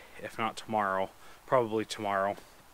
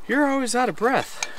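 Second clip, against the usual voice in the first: mock teasing voice, pitched way up; mocking commenters; 12 semitones higher than usual. Viewers teasing him about panting, mocking high voice. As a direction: parrot the commenters in a high, needling tone. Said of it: "on some of my previous videos saying".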